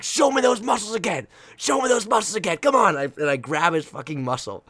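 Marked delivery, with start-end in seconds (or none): 0.0-3.0 loud, high demand to a teammate; reenacted hype shout. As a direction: goad a teammate into showing off. Reenacts chasing teammate, pumping him up.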